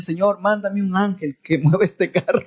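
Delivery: retold prayer breaking into laughter; laughing while quoting; amused retelling. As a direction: crack up halfway through the plea.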